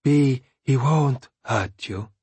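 slow, measured reassurance; quiet reassurance. A narrator's reading. Prilkop reassures a wary Bee about Beloved, quietly. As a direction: reassure gently, taking each word slowly. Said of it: "Prilkop said quietly".

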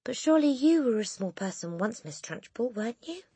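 put-on high-pitched child's voice; little boy. A narrator's reading. Small boy questioning the headmistress, high innocent voice.

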